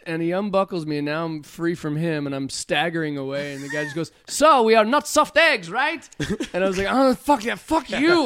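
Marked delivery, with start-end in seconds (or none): 4.3-6.1 high, pushy imitation of instructor; retold instructor yell. Instructor to staggering student, imitated yelling. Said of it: "the guy yells at me afterwards". 6.9-8.2 raised, higher-pitched comic outburst; mock-angry retort. Shaken student to instructor, mock-angry retort.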